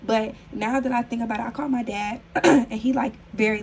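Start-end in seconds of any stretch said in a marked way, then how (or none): 2.4-3.6 strained, fading voice; losing my voice. Real, not acted. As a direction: voice giving out, a bit hoarse. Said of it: "I don't know why I'm losing my voice".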